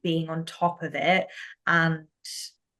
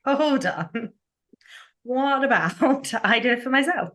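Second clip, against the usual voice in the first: higher-pitched, laughing sudden realisation; light bulb moment; 7 semitones higher than usual. Retold or imitated. Guest retelling her career idea to the host, light bulb moment. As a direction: act out an idea just dawning. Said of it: "had a complete light bulb moment".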